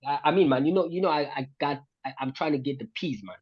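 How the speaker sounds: light London roadman slang; lightly put-on roadman accent. Shown as a demonstration. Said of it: "trying to learn the roadman accent".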